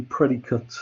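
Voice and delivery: "predicate" with a weak "-kut" ending; short, unstressed last syllable in "predicate"; alternative noun pronunciation. Shown as a demonstration. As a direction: say "predicate" with the last vowel reduced to "uh". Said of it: "depending on your, your accent".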